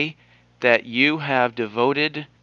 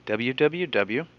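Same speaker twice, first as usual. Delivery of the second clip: slow, spaced-out letters; dictating; slower than usual. Real, not acted. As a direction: read each letter slowly for writing. Spelling out the web address.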